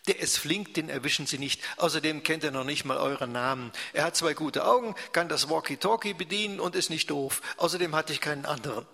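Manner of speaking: impatient. Acted. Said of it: "Uwe wird ungeduldig".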